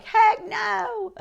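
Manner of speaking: high, loud mock protest; mock outraged refusal. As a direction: squeal it in exaggerated disbelief. Acting out viewers' reaction.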